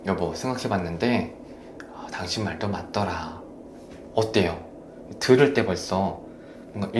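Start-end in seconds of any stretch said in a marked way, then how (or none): 0.1-3.4 soft, hushed admission to the spouse; gentle sincere apology. Acted. Husband conceding to his wife after a fight, softly sincere. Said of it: "그 후에".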